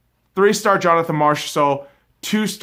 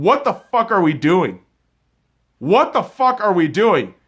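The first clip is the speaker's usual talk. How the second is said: imitating an angry coach; 6 semitones higher, 6 dB louder than usual. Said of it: "I'm looking at those guys and saying".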